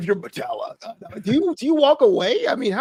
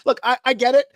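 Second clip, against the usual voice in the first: ordinary talk, nothing marked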